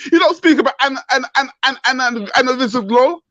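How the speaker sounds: furious tirade; real angry rant, cursing; angry shouting. Real, not acted. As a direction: rant hard at them. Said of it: "you were swearing and shouting".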